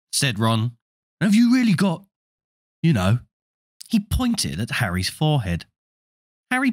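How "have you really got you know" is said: put-on eager boy. Ron asks eagerly.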